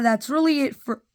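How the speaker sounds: talking through hiccups; hiccupy interrupted speech. Real, not acted. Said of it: "oh my god, I have the hiccups".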